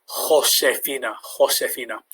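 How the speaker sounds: Josefina with a throaty H from the back; Josefina, the J rasped in the throat; throaty Spanish J. Shown as a demonstration. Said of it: "bringing up phlegm".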